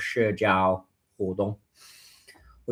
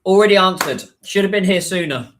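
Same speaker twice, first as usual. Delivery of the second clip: mock scold; 7 semitones higher, 7 dB louder than usual. Real, not acted. Scolding a repeat question.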